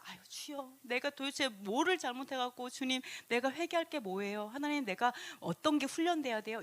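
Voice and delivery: softened, pleading acted prayer; humble prayer. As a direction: sigh into a hushed, searching plea.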